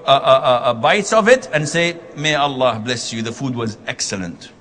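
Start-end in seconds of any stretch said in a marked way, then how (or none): 2.2-4.5 softer, lower, gently insincere praise; polite white lie. Retold or imitated. Husband praising his wife's burnt food, softly. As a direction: sweeten it while fibbing. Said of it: "And I'm lying".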